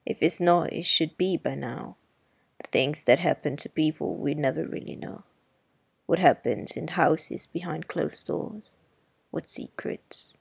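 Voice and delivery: a hint of an older neighbour turning grave; lightly voiced Miss Maudie, hushing. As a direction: let the secrets drop into a hush. Miss Maudie, hushed ending.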